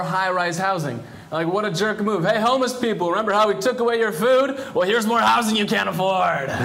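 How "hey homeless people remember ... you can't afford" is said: mock taunt. Acts out jerk landlord taunting.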